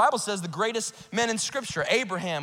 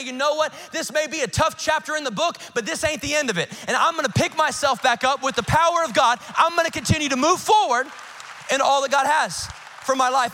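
determined, building from firm to loud; rally yourself to get back up; resolute declaration; 3 semitones higher, 4 dB louder than usual. Acted. Voices David resolving to rise.

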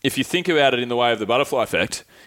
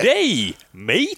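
exaggerated Aussie greeting, pitched up; Australian accent; 6 semitones higher than usual. Shown as a demonstration. Host demonstrates for American listeners, broad Australian accent. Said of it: "practice your Australian accent".

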